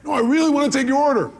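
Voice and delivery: high, loud pleading to a waiter; acted insistence. Customer pressing the waiter to take the order, loud and high.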